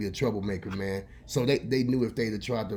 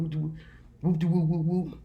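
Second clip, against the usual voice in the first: higher, rhythmic mock whacks; imitated whooping blows; 6 semitones higher than usual. Storyteller mimicking Granny's belt blows, playful high whoops. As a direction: sound out each swat.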